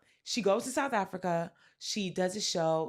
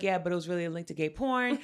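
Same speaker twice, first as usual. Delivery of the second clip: quick laugh through the line; imitating a singer giggling at her prank; laughing retelling; faster than usual. A singer telling the prank story, quick and laughing. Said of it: "she's telling the story and she's like".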